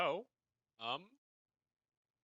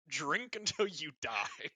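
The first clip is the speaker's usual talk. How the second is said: drawn-out, slightly raised delivery that cracks; 3 semitones higher, much slower than usual. Acted. Game master toasting the festival tradition, voice cracking. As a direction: let the voice crack on a stretched-out line. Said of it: "That was the worst voice crack ever".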